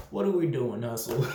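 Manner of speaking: asking through a laugh. Real, not acted. Reviewer laughing at Hustle's corny bar, asking through laughter. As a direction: chuckle the question out.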